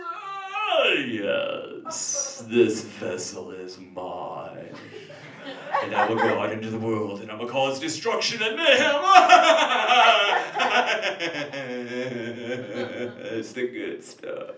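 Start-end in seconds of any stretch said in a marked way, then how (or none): 0.1-9.0 demon voice. Acted. Demon speaking through possessed person. 9.1-13.3 laugh. Real, not acted. Laughing after the demon bit.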